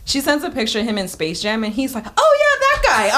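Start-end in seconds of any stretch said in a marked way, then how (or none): 2.2-3.2 much higher, slow, louder, dawning recognition; imitating mom. A daughter mimics her mom recognizing Jordan, high and slow. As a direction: play the mom who finally gets it, drawn out.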